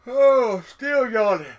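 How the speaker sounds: loud, high delighted cry to a pet; excited greeting. Real, not acted. To his yawning pet slug, a loud delighted cry. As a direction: burst out happily at the yawning pet.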